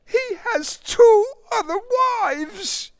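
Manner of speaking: very high, loud scornful retort; angry retort. Acted. Marie scornfully retorts to the suitor before storming in. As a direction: snap back in contempt.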